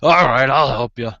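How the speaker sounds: big laugh breaking into words; acted giant's amused offer; laughing Goliath. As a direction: boom it out through a hearty laugh. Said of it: "the Goliath laughs. He says".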